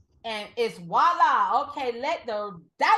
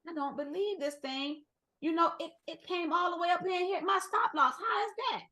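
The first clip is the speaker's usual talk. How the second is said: mock disbelief; 6 semitones higher than usual. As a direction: play the stunned trader who can't believe it. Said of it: "And you sitting there like".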